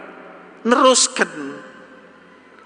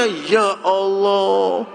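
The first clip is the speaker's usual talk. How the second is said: anguished sigh; 4 semitones higher, much slower than usual. Acted. Blind man's grief over the Prophet.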